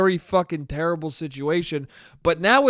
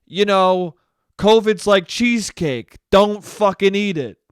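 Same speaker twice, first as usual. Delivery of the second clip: a loose Cuomo impression, a bit louder; lightly voiced Cuomo warning about cheesecake; half-hearted Cuomo bluster; mock Cuomo; 4 dB louder than usual. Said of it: "Now he's just like".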